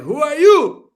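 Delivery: loud, high scornful yell; mocking a haughty diplomat; mock contempt. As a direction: sneer it down at her. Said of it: "He's like".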